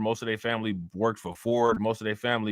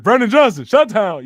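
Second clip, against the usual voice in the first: shouted high, punchy mock impression; Dollar Bill impression; 9 semitones higher, 10 dB louder than usual. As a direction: yell it out high as a roasting impression. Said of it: "I do the dollar bill impression".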